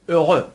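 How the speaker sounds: "ا، غ" joined and loud, no h or final x; silent H and X. Shown as a demonstration. Teacher sums up happy in French, "ا، غ" with silent ends. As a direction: run rounded "ا" straight into throaty "غ". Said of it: "نه اش تلفظ شد و ایکس".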